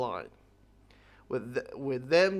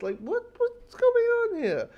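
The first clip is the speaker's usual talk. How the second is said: much higher, slow, crying voice. Real, not acted. Reviewer asking what happens next, crying. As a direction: sob it out, voice breaking. Emotional about the X-Men.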